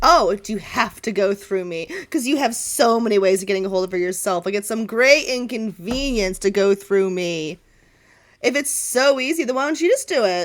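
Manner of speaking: dripping sarcasm, rising toward the end; sarcastic raven. Acted. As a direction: needle her like a snide pet bird. Edgar mocks Cass sarcastically.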